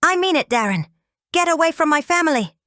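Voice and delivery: high, loud, furious command; angry warning. Acted. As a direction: order him off for good. Father defending his family.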